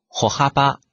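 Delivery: 歩幅 read as Japanese "hohaba", the 歩 as "ho"; 歩幅 said the Japanese way, "ho-haba". Shown as a demonstration. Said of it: "一般读作ほ".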